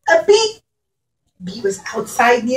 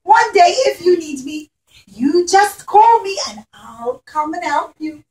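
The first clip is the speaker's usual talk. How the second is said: reassuring bee; 5 semitones higher than usual. Acted. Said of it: "the little bee said".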